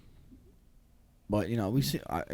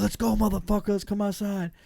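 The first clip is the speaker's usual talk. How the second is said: retold challenge; 7 semitones higher than usual. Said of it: "I'm like".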